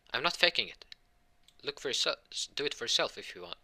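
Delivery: acted defensive objection; indignant protest. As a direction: protest that you really mean it. Hurt character protests accusation.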